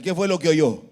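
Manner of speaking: firm, projected teacher's question. Shown as a demonstration. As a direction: raise your voice and ask for a stronger answer. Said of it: "Léalo más fuerte".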